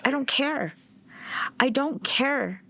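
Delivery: high, slowing defiant I don't care. Retold or imitated. Mother to husband warning her of arrest, high defiant refusal. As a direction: refuse to back down, spitting each word. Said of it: "I was like".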